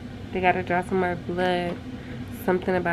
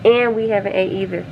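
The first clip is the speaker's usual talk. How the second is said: frustrated, rising. Real, not acted. Mother venting to camera about the hungry baby, frustrated. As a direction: let the anger build but hold it in. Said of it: "I'm becoming frustrated".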